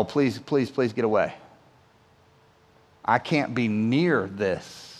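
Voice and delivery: low, hushed, slowing to a dread-filled plea; panicked thought. Retold or imitated. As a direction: inner voice begging him away. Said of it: "'Cause Peter thought".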